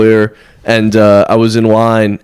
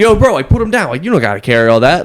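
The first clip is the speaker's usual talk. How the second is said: bro impression; 4 semitones higher than usual. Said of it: "He was like".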